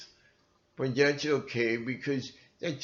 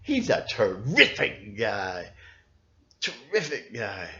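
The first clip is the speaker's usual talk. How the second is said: sarcastic Trump imitation.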